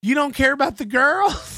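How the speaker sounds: mock pleading. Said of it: "can't stop saying the words".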